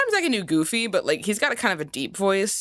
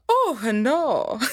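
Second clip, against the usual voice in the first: Mario character line. Shown as a demonstration. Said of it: "I also do the".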